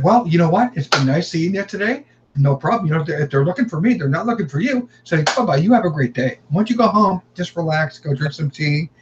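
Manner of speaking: mock-cheery goodbye; retold breezy send-off. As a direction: act out shooing a neighbor off politely. Retold polite send-off of the neighbor.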